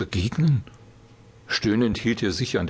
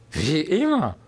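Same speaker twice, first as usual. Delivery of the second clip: put-on despairing drunken slur; 7 semitones higher than usual. A narrator's reading. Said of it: "lallte er verzweifelt vor sich hin".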